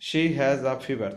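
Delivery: slow reading. Shown as a demonstration. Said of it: "teacher reads sentence slowly".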